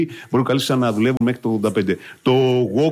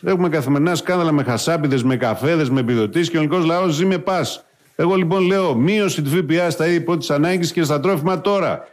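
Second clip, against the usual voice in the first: Tsipras impression. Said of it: "Αλέξης εδώ".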